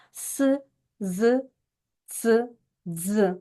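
isolated sibilants «с», «з», «ц», «дз», one at a time; whistling consonants. Shown as a demonstration. Teacher recalls whistling sounds for pupils, each sibilant said separately. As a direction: pronounce each of «с», «з», «ц», «дз» alone, as if whistling. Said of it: "Ми їх вимовляємо начебто свистимо".

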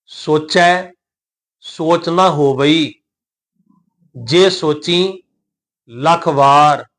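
slow recitation with drawn-out vowels; scripture recitation. Shown as a demonstration. Teacher models the verse for learners, slow recitation. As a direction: recite phrase by phrase, stretching the endings.

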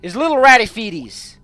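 high, loud cutesy cooing; hammed-up high baby-talk voice; gushing baby talk. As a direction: coo loudly as if to a tiny pet. Cooing over rat's feet.

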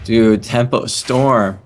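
slow, lazy stoner drawl. Real, not acted. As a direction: say it like a laid-back stoner. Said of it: "a stoner voice".

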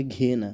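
"ঘিয়েনা" starting on a hard g, ghi-ena; "ঘিয়েনা" as a careful model for learners; Russian pronunciation demo. Shown as a demonstration. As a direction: say "ঘিয়েনা" with g in place of h. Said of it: "উচ্চারণটা হবে".

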